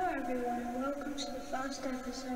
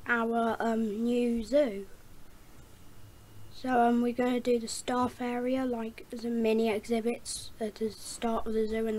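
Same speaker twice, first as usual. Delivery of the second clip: echo voice; 6 dB louder than usual. Shown as a demonstration. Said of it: "I'll start with the echo voice".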